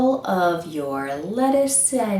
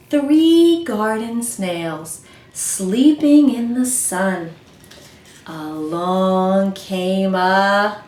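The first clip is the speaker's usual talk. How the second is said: slow storytelling poem voice; counting poem; much slower than usual. Acted. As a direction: recite slowly for children. Reads counting poem slowly.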